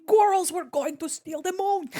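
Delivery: high, loud mock villain accent like Gru; Gru impression. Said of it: "I just think of Gru from Despicable Me".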